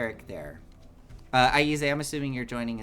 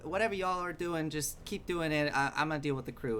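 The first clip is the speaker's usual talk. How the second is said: flustered captain; 3 semitones higher, 3 dB quieter, faster than usual. Acted.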